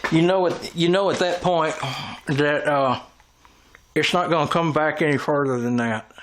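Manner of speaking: talking through a mouthful of food; words round a bite of food; mouth full. Real, not acted. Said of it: "talking with my mouth full".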